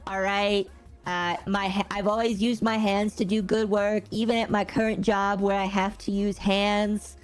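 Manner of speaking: boastful presidential impression, held at an even pitch; put-on politician voice, bragging deliberately; Trump. Streamer bragging about hands to chat, mock-Trump voice. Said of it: "if you're doing the Trump im-, imitation".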